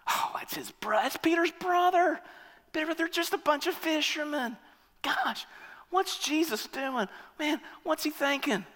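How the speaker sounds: a disgruntled fan grumbling about the fishermen; grumbling complaint. Retold or imitated. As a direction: mutter disapproval to yourself.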